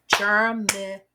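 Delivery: Germination in clear syllables for clapping; said together in parts. Shown as a demonstration. Teacher leading children to clap along, clear syllables. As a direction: lead the class through the beats. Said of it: "Let's do it together".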